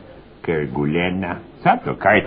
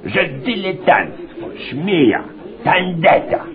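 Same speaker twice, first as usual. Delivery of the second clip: contemptuous list; 11 semitones higher, slower than usual. Acted. Inspector dictating crushing review.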